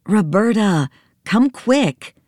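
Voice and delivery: high urgent call. Acted. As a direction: hurry her up. Joe calling urgently.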